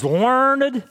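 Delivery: "learned" drawn out in two syllables, LUR-ned; two-syllable pronunciation. Shown as a demonstration. Preacher offers regional ways to say Paul was educated, two-syllable "learned". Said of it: "however you want to say that".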